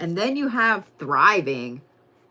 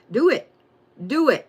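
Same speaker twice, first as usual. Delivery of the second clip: urgent push; 4 semitones higher, 4 dB louder than usual. Real, not acted. Urging viewers.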